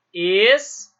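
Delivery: "es" said alone, loud, cut off from the word; syllable split. Shown as a demonstration. Teacher splitting stop into syllables for students, syllable by syllable. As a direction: isolate "es" as its own loud syllable.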